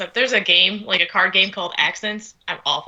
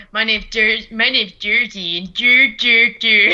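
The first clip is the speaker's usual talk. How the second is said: mocking dumb voice; 3 dB louder, slower than usual. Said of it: "this is what you sound like".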